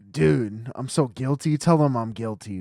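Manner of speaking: hammed-up confession; loud pleading client. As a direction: beg to be called guilty.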